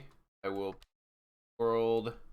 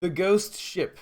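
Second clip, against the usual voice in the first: excited; 8 semitones higher, 7 dB louder than usual. Real, not acted. Reads card text excitedly.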